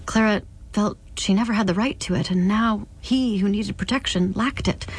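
measured literary reading; narrator's even storytelling; story narration. A narrator's reading. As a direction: read the novel aloud, carefully phrased. Reads novel aloud.

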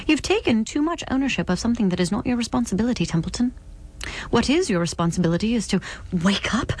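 lightly voiced stern visitor, measured phrases; admonish, weighing each blessing; a hint of a scolding spirit; reproving otherworldly visitor.

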